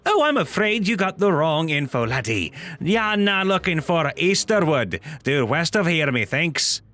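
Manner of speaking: put-on lightly accented gnome villager; gnome townsperson. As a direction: give directions as an apologetic little gnome. Gnome townsfolk voiced in a story.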